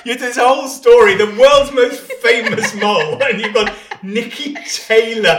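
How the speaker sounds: high, loud laughing outburst. Real, not acted. Husband laughing hard at wife's rambling mole story. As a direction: crack up while protesting.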